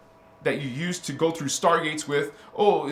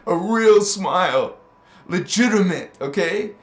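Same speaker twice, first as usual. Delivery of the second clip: emphatic; 6 dB louder than usual. Shown as a demonstration. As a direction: lean hard on real. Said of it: "I will show you a real smile".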